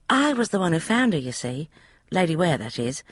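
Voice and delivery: put-on high, eager young maid's voice; a chatty servant girl, pitched high; maid Polly. Maid Polly explaining the room to Emma, high eager voice. Polly begins her story.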